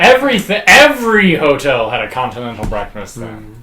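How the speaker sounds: exaggerated swooping pitch, overly emphatic; bullshit voice. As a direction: spin it like a put-on know-it-all explanation. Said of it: "You were using your bullshit voice".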